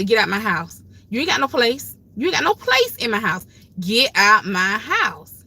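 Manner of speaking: firm, rising demand to the devil. Shown as a demonstration. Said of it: "You gotta say".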